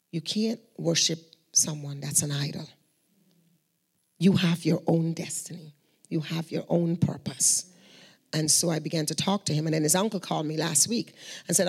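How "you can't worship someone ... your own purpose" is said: slow, tender counsel; slow and gentle. Retold or imitated. To a grieving young man in the waiting room, slow and tender. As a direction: speak slowly and tenderly to console him.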